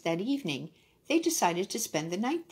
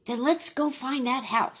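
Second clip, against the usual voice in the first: donkey voice; 6 semitones higher, 4 dB louder than usual. A narrator's reading. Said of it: "said the donkey".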